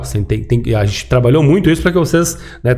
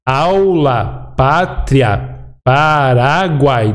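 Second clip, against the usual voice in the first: syllable-by-syllable; much slower than usual. Shown as a demonstration. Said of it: "dois ditongos".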